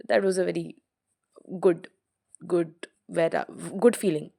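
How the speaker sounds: tripping over the words; stuttering. Real, not acted. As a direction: repeat words, getting stuck. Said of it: "why am I stuttering?".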